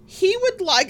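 high, flustered, ordering for him. Retold or imitated. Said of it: "And I'm like".

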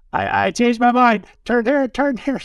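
high, loud frantic yell; shouting out. Acted. Odysseus tied to the mast yells at his sailors, shouting. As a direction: yell out like an enchanted captain begging to turn. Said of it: "he starts shouting out".

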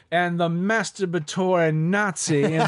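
loud, slow mock drawl; imitated drawl. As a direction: draw the words out loudly, lightly imitating a drawl. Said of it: "that alone in his drawl".

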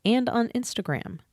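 even, scripted announcer delivery; podcast outro read. Acted. Host thanking listeners and plugging the show, scripted outro read. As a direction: read the credits and plugs evenly to listeners.

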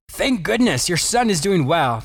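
lightly happy doctor with relief; happily. Acted. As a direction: brighten up to deliver good news, unhurried. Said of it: "the doctor happily informed".

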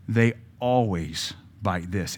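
slow, low, creeping "They always bite this"; a demon savoring the trap, slow; sly demon. Retold or imitated. Demons plotting against believers, slow and sly. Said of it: "Maybe the demons say".

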